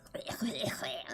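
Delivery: mock throat-clearing. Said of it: "if I just suddenly went".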